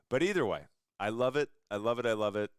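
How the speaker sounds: really can't contain the enthusiasm; gushing. Real, not acted. Host raving about a sales book to his guest, excitedly.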